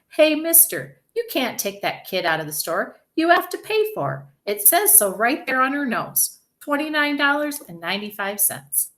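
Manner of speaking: mostly high, pushy call; insistent cashier. A narrator's reading. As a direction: challenge a customer who hasn't paid. Cashier challenges the father.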